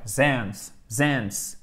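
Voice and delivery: "zens" with a buzzing z; z sound. Shown as a demonstration. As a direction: buzz the ending as "zens". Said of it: "on a le S de la troisième personne".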